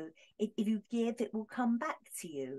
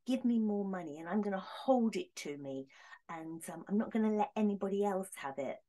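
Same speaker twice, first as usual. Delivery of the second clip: greedy mock whine. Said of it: "being greedy".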